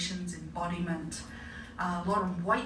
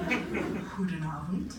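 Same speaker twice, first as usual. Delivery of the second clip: slow, careful fake-Dutch goedenavond, half laughing; a non-Dutch speaker faking Dutch; mock Dutch greeting; much slower than usual. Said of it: "I'm pretending to be Dutch".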